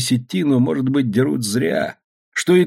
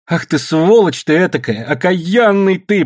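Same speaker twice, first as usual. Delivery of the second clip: raised, indignant high voice; angry cursing; 7 semitones higher, 4 dB louder, slower than usual. Acted. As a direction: curse your father to his face. Daughter runs up cursing father.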